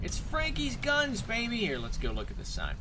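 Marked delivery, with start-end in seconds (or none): 0.0-1.6 high, loud, drawn-out announcement; excited hype. Pretend. Gamer arriving at Frankie's gun shop, excited hype.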